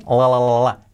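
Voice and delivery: "la, la, la, la" repeating the L; "la, la, la, la" with a clear tongue-tip L; L sound demo. Shown as a demonstration. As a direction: drill the L in "la, la, la, la". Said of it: "y la L".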